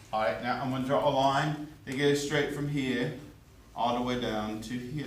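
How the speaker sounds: put-on playfully mangle the accent, Australian, British and French at once; mixed foreign accent. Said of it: "a cross between an Australian, British, and, uh, French accent".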